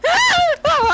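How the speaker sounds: very high, short shriek; startled squeal. Real, not acted. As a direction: squeal at a jump scare. Startled in horror game.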